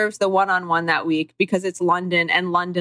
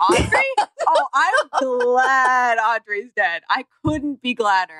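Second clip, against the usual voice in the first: mock glee; 3 semitones higher, slower than usual. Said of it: "mock outrage joke".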